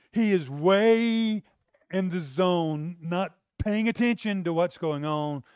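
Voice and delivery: a hint of a disciple complaining that Jesus is too spiritual; mock frustrated disciple. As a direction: lightly play a fed-up disciple whining about Jesus.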